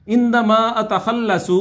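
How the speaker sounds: عندما اتخلص spoken slowly, each word drawn out; slow drill. Shown as a demonstration. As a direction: model the phrase slowly for repetition. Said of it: "lesson drill, slow model".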